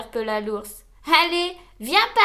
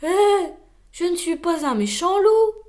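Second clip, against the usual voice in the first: reassuring; 5 semitones higher, 6 dB louder than usual. Acted. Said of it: "le rassura-t-il".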